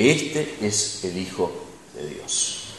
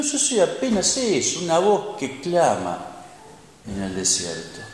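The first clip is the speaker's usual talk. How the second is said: humble; 3 semitones higher, 4 dB quieter than usual. Pretend.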